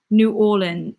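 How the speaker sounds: "New Orleans" attempted with the last word squeezed into two syllables; tentative go at saying "New Orleans" as "New OR-lin"; trying a pronunciation. Shown as a demonstration. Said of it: "how do you say it".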